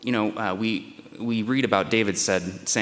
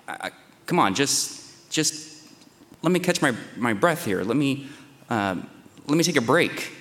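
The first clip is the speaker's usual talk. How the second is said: pleading, pitch climbing higher, breath-short on "just"; begging for relief; 3 semitones higher than usual. Retold or imitated. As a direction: beg for a moment's rest, voice rising. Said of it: "So Job is begging for relief".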